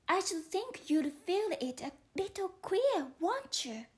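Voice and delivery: young Alice explaining herself to the caterpillar, lightly voiced. Alice argues.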